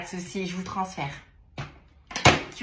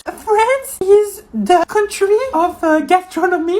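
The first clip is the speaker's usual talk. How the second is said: nervous reading; 9 semitones higher than usual. Acted. Nervous student reading English aloud.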